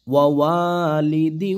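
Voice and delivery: slow melodic recitation; Quran recitation. Shown as a demonstration. Teacher models the phrase for students, slow chant. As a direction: chant it slowly.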